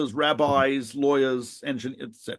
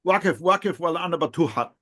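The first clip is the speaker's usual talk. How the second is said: Arabic warning said a little more carefully; slower repeat. Shown as a demonstration. Speaker repeating the warning for a doubting friend, slightly slower. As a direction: repeat the phrase a touch slower. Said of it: "Say it again slowly".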